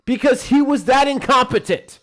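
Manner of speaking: loud, high, slow Trump bluster; booming Trump rally voice; Trump impression. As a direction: do Trump ranting big at a rally. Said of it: "you do the Trump impression better than me".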